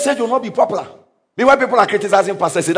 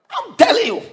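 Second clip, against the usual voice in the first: jumps much higher on telling; emphatic repeat; 10 semitones higher than usual. Shown as a demonstration. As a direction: drive it home.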